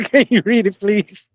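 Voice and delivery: asking through laughter; laughing mock plea. Mocking the customer who can't read, laughing. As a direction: giggle out the request.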